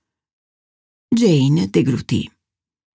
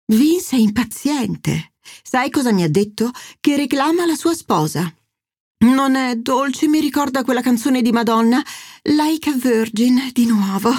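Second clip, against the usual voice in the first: lightly voiced mother sighing like a dying heroine, pitched higher; a hint of a theatrical mother playing the martyr; mother pouting at her daughter, a touch higher and plaintive; dramatic mother; 4 semitones higher than usual. Narrator voices the mother Angela.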